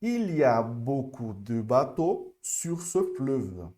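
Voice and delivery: Il y a beaucoup read slowly but smoother. Shown as a demonstration. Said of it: "de uma forma mais avançada".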